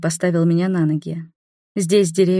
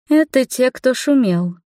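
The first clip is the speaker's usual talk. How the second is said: stern; 6 semitones higher, slower than usual. Acted. Mori sternly points out the noisy ones, stern. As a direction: lay down the law like a strict guardian. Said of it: "строго сказала Мори".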